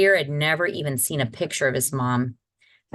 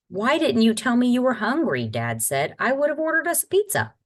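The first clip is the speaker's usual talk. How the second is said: higher, quick concerned dad; a hint of a fussing father; lightly voiced father; 8 semitones higher than usual.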